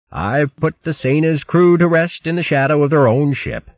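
high hare voice, softened and kind; gentle old hare. Acted. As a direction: comfort the grieving mouse. Bo gentle after sniffing.

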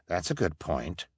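low, quiet murmur of agreement; soft agreement. Acted. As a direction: agree under your breath. Council member agrees.

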